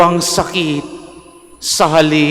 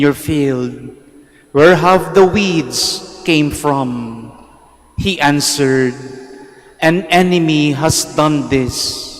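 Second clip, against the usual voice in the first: Gospel reading; 2 semitones lower than usual. Acted.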